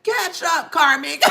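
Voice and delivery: ordinary talk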